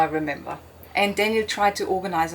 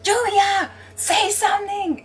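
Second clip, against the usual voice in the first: much higher, louder pleading call; desperate calling; 12 semitones higher, 4 dB louder than usual. Retold or imitated. Husband shaking his wife, calling her name in panic. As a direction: beg her to answer. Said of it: "kept shaking me, going".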